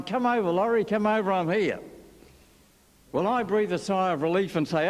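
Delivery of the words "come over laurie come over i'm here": a mild mock yell, a bit higher; retold yell. Breathless race caller yelling down the line to the studio, mild mock yell. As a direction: call it down the line, half-hearted shout. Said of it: "yelled down the line".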